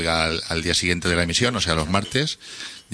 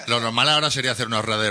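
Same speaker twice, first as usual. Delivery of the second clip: laughing through the words, quicker; 4 semitones higher, much faster than usual. Real, not acted. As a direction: talk on while still laughing. Laughs at the Ultratumba remark. (hablando entre risas)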